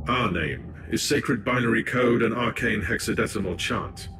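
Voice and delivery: lightly voiced ancient machine spirit using a borrowed body; a hint of a collective voice, measured and distant; possessed by machine spirit. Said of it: "my voice box was utilized by the machine spirit".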